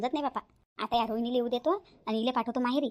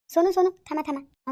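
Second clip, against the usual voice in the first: calling out; 5 semitones higher, 5 dB louder, slower than usual. Acted. Sister-in-law calls Sonu back.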